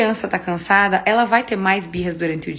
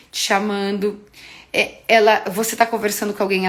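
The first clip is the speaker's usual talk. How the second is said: ordinary talk, nothing marked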